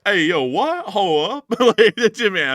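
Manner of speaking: hammed-up outrage; mock surprise. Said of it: "I'm just playing with you".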